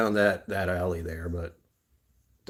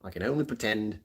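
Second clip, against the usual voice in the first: attempted British accent; 3 semitones higher than usual. Shown as a demonstration. Streamer trying British for viewers, exaggerated British accent. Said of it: "I can try a British accent".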